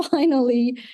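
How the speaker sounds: finally said through a laugh; husband's relieved finally, laughing. Retold or imitated. Repeated with a laugh.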